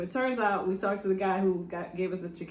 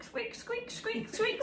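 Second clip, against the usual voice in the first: high, soft squeaky noises; high soft squeak squeak; imitated squeaks; 10 dB quieter, much slower than usual. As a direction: mimic squeaky boots.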